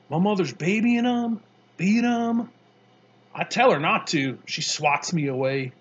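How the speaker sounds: put-on a tough kid, amused, spinning his story; Mars Bar voice.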